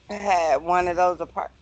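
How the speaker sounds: hiccupping mid-word; words cut off by a hiccup. Real, not acted. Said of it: "I got the hiccups".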